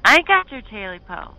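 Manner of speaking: high, loud frightened yell. Acted. Smitty yelling at the creature in fear, high and loud. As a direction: shout it as loud as you can. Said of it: "yelled back as loud as he could".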